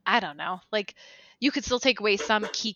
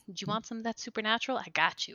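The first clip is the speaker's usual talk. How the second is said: shady dealer pitch; 9 dB quieter, faster than usual. Pretend. Witches as dealers.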